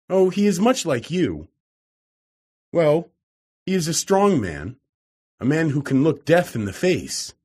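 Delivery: a hint of a gentle young woman turning him down; Gladys, gently voiced. A narrator's reading.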